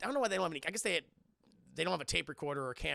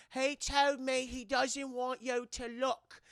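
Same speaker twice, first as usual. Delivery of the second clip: slow eerie relay; 7 semitones higher, much slower than usual. Retold or imitated. Retold Janet relaying ghost.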